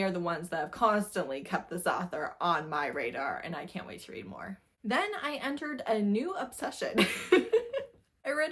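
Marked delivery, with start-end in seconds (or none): 4.8-8.5 laughing through the line, then a high giggle; giddy giggle at her own obsession; bubbling laugh; giggling. Real, not acted. Giggly intro to new obsession.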